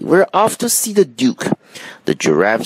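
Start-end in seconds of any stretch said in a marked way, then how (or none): 0.0-1.5 high monkey voice; eager little monkey announcing departure; excited cry. A narrator's reading. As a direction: call out in high-pitched glee. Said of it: "cried the monkey".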